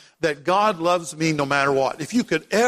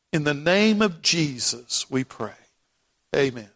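earnest prayer. Acted. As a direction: pray aloud for the congregation, lowered and earnest. Leads the congregation in prayer.

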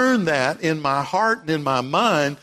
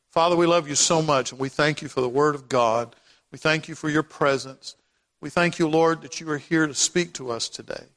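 earnest prayer. Acted. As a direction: pray aloud for the congregation, lowered and earnest. Leads the congregation in prayer.

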